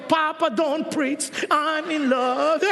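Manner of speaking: slow, lightly voiced daughter, half laughing; a hint of a lovestruck teen brushing off her father; mock teen reply. Daughter answering her preaching father, slow, lightly voiced with a laugh. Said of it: "Ano sasagot sa'yo?".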